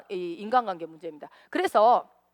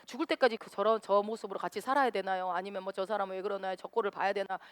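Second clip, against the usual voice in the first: whiny complaint. Pretend. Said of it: "이제 어떻게 하냐면 제가".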